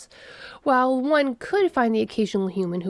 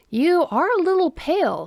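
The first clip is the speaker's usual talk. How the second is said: high, raised concerned voice; gently worried observation, pitched up; 9 semitones higher, 5 dB louder than usual. A narrator's reading. Coworker looks over pale friend, concerned. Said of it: "she said with concern".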